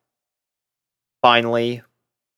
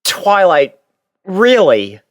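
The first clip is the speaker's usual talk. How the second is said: a touch of bashful surprise; mildly flustered, caught off guard; embarrassed; 8 semitones higher, 6 dB louder, slower than usual. Acted. Tai, embarrassed by Twilight's compliment, mildly flustered. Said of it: "still a bit embarrassed".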